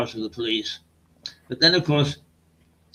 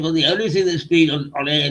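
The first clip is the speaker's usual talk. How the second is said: put-on Black Country accent; 2 semitones higher than usual. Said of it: "black country accents".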